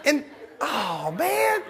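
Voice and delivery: very high, drawn-out groan of disbelief; hammed-up exasperated wail; comic exasperation. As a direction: groan in mock despair, squeaking upward. Comic exasperation at wife's accusation.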